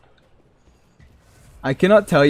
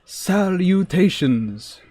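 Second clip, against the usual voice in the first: Salutations stretched out very slowly and a little higher, like a lofty nerd; grandly drawn-out greeting; 5 semitones higher, much slower than usual. Shown as a demonstration. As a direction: savour every syllable of Salutations, slow and mock-grand. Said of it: "only the nerdiest of the nerds ever say salutations".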